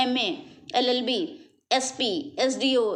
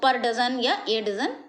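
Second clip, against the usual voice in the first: slow example; much slower than usual. Shown as a demonstration. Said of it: "ये आ रहा है आपका यहाँ पे".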